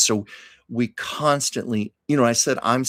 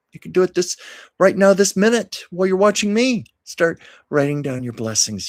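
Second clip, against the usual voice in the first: urgent encouragement; 7 semitones higher, 6 dB louder than usual. Real, not acted. Urging viewer Andy directly.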